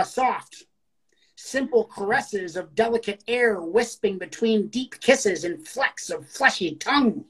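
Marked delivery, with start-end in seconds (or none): 1.4-7.2 slow, deliberate poem delivery; poetry reading. Acted. Host reading out a listener's poem, slow poetry reading. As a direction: read the verse slowly, phrase by phrase.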